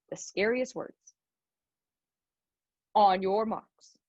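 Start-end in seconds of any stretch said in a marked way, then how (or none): 2.9-4.0 slow, drawn-out race starter call; starter's call. Retold or imitated. Runner retelling the starter's command, slow and drawn out. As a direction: mimic the starter, slowly. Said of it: "And then the starter says".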